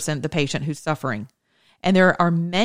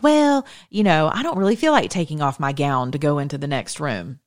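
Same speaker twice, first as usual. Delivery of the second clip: mock lazy nurse. Lazy nurse excusing skipped gown change, mildly mocking. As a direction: lightly imitate a reluctant excuse. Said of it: "nurses get lazy and they're like".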